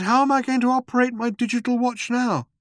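high-pitched alarm; frightened realisation. A narrator's reading. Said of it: "A frightening thought struck him".

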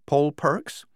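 jovial army major; hearty major voice. A narrator's reading. The major speaks.

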